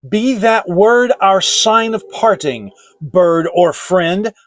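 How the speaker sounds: loud, high shriek of rage. A narrator's reading. Lover shrieking at the raven to leave. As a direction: drive the bird away with a scream. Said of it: "I shrieked".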